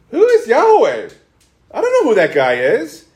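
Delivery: emphatic, high and loud opening question. Acted. Pharaoh answering Moses and Aaron, emphatic and dismissive. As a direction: challenge it as a dismissive Pharaoh, mildly acted. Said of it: "what did he say emphatically".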